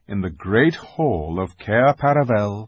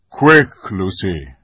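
urgent command; 8 dB louder, slower than usual. A narrator's reading. Aslan sends Lucy to the wounded boy, urgent. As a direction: urge her into action at once.

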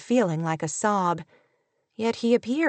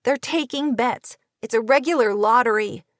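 higher-pitched, exasperated outcry; acted indignant protest, pitched up; furious cry; 3 semitones higher, 3 dB louder than usual. A narrator's reading. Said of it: "she cried, all the more furious with him".

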